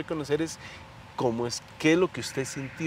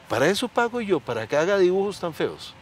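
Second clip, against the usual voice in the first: higher, louder scolding; angry authoritarian father; 6 semitones higher, 4 dB louder than usual. Retold or imitated. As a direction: berate the child for the drawing. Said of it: "él con su papá autoridad". (padre autoritario regañando, más agudo y fuerte)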